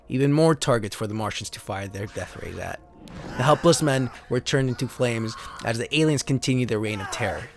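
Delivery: dramatic narrator reading out card backs; steady storyteller read of alien invasion cards; card text reading. Acted. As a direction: read it like an old sci-fi trailer. Reads trading card text aloud.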